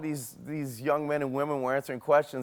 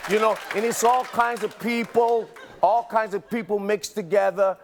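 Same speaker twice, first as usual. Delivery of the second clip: put-on Brooklyn accent; 2 semitones higher than usual. Confessing his Southern accent is a scam, mock Brooklyn accent. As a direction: play a mock native Brooklynite. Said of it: "I come from Brooklyn".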